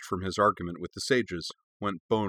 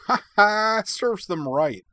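high, loud gloating laugh into drawn-out words; chortling; 12 semitones higher, 5 dB louder, slower than usual. A narrator's reading. Utna delighted at the masters' upset, chortling. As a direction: chortle with glee. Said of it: "Utna chortled".

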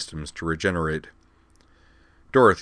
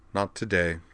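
calm; 3 dB quieter than usual. Acted. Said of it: "Dorothy replied calmly".

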